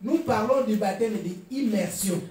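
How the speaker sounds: unhurried, measured explanation; slow for clarity. Real, not acted. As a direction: ease off and spell it out gently. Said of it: "je vais parler doucement pour que nous comprenions".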